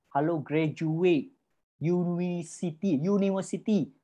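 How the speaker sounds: slow, scornful stretch of the words; sneering at graduates' salary demands, slowly; mocking drawl. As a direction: drag it out with contempt. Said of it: "mocking graduates".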